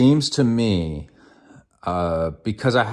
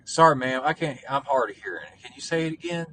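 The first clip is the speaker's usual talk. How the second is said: higher-pitched mock apology to a lady; imitated hard-of-hearing man; 6 semitones higher than usual. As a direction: lightly voice an old guy asking for a repeat. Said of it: "And then he was like".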